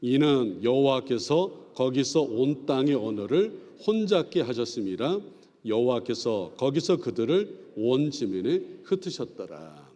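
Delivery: slow, measured scripture reading; reading aloud together. Shown as a demonstration. Pastor leading the class in reading, slow recitation. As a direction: lead the verse slowly for all to follow. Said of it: "같이 읽어보죠".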